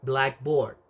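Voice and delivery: "blackboard" with the stress on black. Shown as a demonstration. Lecturer showing where a compound is stressed, stress on "black" in "blackboard". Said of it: "the word black".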